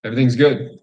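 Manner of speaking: mock chirpy everything's fine; forced cheer. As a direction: paper over everything brightly. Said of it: "societal expectation".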